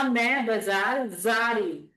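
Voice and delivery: put-on slow, careful repeat of मैं बाजार जा रही हूँ for a child; slow and clear. Shown as a demonstration. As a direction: spell it out slowly so the child can copy. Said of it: "इसने सुना".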